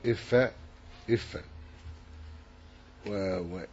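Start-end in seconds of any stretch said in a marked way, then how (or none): 0.1-1.4 إف said iffa, i first and a last; kasra then fatha. Shown as a demonstration. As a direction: sound إف with i on the hamza and a on the f. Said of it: "وفتح الفاء".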